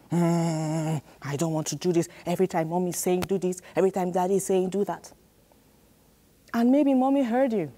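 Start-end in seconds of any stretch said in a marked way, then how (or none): 0.1-5.1 put-on sulky child's whine, rushing the complaint; hammed-up sulky child, fast; mock grumbling child. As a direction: grumble like a kid told to do chores. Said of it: "and you grumbled".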